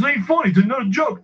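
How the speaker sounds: high-pitched indignant scolding; mock irate customer. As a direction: imitate a man worked up over being laughed at. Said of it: "it got real c-, crazy".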